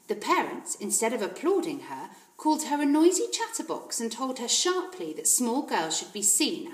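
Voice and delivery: lively storytelling read aloud; story narration. A narrator's reading. Reading Matilda aloud to the viewers, storytelling. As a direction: tell it like a children's story.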